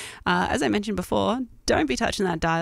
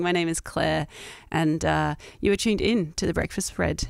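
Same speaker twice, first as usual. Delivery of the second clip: hoarse from a cold; husky voice at the tail end of a cold; husky sick voice. Real, not acted. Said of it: "my kinda husky, sick voice".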